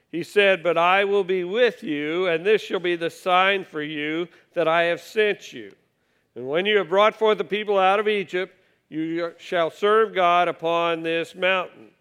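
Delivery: measured, solemn Bible reading from the pulpit; scripture reading. Acted. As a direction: read each line out like holy writ. Reads verse twelve.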